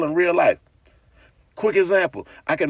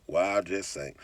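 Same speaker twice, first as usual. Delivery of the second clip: real slow; 9 semitones lower, 11 dB quieter, slower than usual. Shown as a demonstration. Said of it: "Say it real slow".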